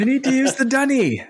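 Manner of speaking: put-on high little-kid voice with an Australian word; dad mimicking his toddler in a high voice; imitating his son. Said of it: "kid picking up Bluey phrases".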